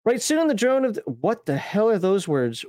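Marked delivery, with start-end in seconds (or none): 0.0-1.0 lightly put-on Australian storyteller; mild mock-Aussie lilt; Australian accent. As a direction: read it out in a half-hearted Australian accent. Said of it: "I hate speaking Australian".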